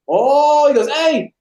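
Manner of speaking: high mock exclamation; drill instructor calling out. Drill instructor calling the other instructor over, high mock call. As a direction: call a buddy over, mocking.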